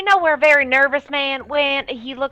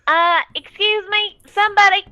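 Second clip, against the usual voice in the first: calling for help; 8 semitones higher, 4 dB louder than usual. Acted. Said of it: "be like".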